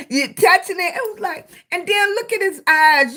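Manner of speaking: giggling through the words; laughing about touching a catfish. Real, not acted. Laughing while describing touching catfish.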